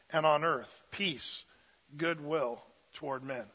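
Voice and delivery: measured, solemn reading of the Gospel; scripture reading. Acted. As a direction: read it like holy text from the pulpit. Pastor reads the angel's words.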